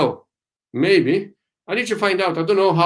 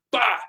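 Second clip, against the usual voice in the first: short imitated thump "pá"; one sudden popped syllable; punch sound; 5 semitones higher, 4 dB quieter than usual. Shown as a demonstration. Teacher showing what a punch is, imitated thump. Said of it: "The punch is like".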